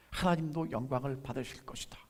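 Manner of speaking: hushed whisper of a solemn promise; whispered quote. Acted. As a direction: breathe the words in a whisper. Quoting Jesus, dropped to whisper.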